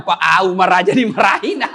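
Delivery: laughing report. Retold or imitated.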